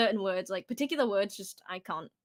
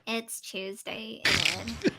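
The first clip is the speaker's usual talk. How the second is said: slow mock American take; American accent; much slower than usual. Shown as a demonstration. Brit copying the catchphrase, slow mock American accent. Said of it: "I'll become American".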